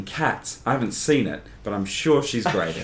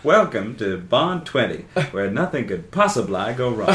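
laughing. Real, not acted. Mock announcer with laughing.

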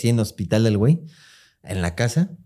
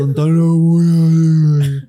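sharpened voice; 3 semitones higher, 6 dB louder, much slower than usual. Shown as a demonstration. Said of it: "hay que empezar a agudizar la voz".

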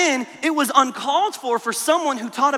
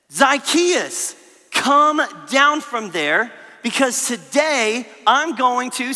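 slow deliberate calling out; Jesus calling; slower than usual. Retold or imitated. Jesus calling Zacchaeus down from the tree, slow and deliberate. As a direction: call him down slowly, kindly. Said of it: "this is what Jesus said".

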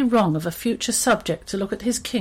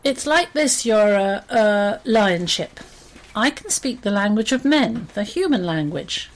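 confident mouse. Acted. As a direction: address the lion with self-important confidence. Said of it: "with confidence he began".

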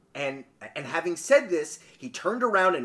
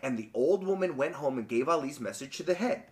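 measured, quieter storybook reading; story narration; 4 semitones lower, 7 dB quieter than usual. A narrator's reading. Podcaster reading a folk tale to co-host, story narration. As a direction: read the tale with lilting emphasis.

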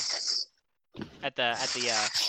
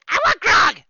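put-on shouting drunk; 13 semitones higher, 9 dB louder than usual. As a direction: bellow the order, high and loud. Drunk patron shouts order.

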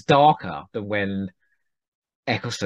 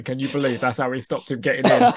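retold line broken by a laugh; laughing quote; 5 semitones higher than usual. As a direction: say it while laughing at the joke. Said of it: "laugh their heads off".

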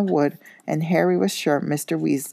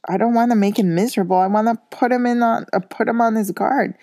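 retorting; 6 semitones higher than usual. A narrator's reading. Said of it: "retorted Mister Weasley".

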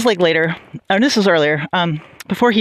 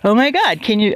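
mildly acted shocked exclamation; appalled. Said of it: "I was just appalled".

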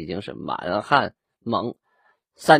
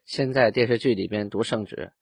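normal talking voice

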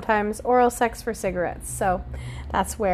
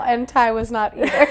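laughing while speaking. Real, not acted. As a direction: say it through a laugh. Laughs at the match.

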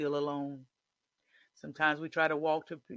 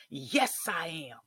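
mild declaration. Shown as a demonstration. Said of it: "you have to scream that".

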